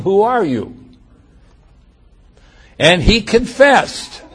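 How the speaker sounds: measured, solemn reading of scripture; preacher reading the Jews questioning John, solemn. Acted. Reads scripture aloud.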